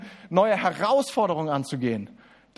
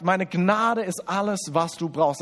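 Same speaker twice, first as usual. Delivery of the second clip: langsam betont. Acted. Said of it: "sondern Jesus sagt".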